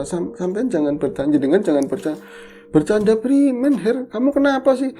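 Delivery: retold angry scolding, pitched high; mock-angry demand for an explanation. Telling Heri off for joking, angrily. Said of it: "Tadi marah, bener-bener marah".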